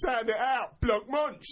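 high, loud, blancmange as "block-munt"; sounded out. Retold or imitated. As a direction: belt out blancmange phonetically, hard k. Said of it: "That's what my teacher said to do".

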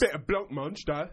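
loud geezer order, hard "blunk-munch". Acted. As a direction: belt it out like a geezer. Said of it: "reading it like a geezer".

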